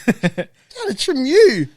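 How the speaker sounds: mock kid spelling it out; exasperated kid.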